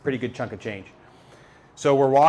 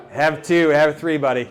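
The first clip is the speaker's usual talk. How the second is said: louder, pushy buddy voice; eager urging; 3 semitones higher, 5 dB louder than usual. Retold or imitated. Guide feeding a flagging buddy energy goos, eager urging. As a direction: press more on him, louder.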